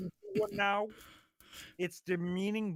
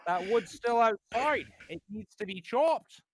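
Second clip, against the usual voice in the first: lightly voiced stern lecturer; a hint of a stern Canadian professor; Jordan Peterson impression. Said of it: "you do a Jordan Peterson impression".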